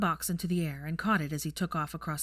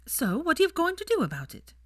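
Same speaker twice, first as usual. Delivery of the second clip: high, louder pressing woman's voice; Daphne demanding; 12 semitones higher, 5 dB louder than usual. A narrator's reading. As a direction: push him for an answer.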